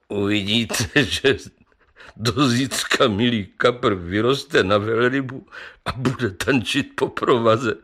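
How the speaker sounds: mocking chuckle through the words; a pharmacist laughing at the tale. Pharmacist scoffs at the carp story, laughing. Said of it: "smál se lékárník".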